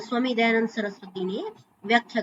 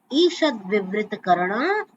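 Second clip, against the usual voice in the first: slow sutra citation; 3 semitones lower, slower than usual. Shown as a demonstration. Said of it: "ये महर्षि पाणिनि का सूत्र है".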